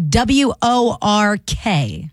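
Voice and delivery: spelled out slowly. Shown as a demonstration. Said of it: "it's work".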